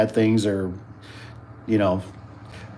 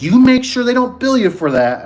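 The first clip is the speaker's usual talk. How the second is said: put-on high, loud warning old lady; old nurse voice; 13 semitones higher, 6 dB louder than usual. Old nurse warning the patient about the bill, high and loud. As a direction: imitate a feisty old nurse scolding kindly. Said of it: "And she's like".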